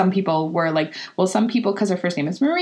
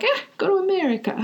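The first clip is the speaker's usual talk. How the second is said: mother's voice; 10 semitones higher, much faster than usual. Retold or imitated.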